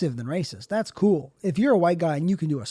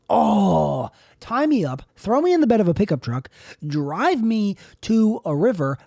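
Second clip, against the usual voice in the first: melodramatic begging, drawing out key words; hammed-up rapture. Swooning over people fluent in multiple languages, hammed-up rapture. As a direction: plead theatrically, as if overcome.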